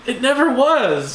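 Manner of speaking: high, slow deadpan line; imitating Mantis. Quoting Mantis from the background, slow deadpan. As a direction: say it slow and dry. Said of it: "Spider-Man in the background going".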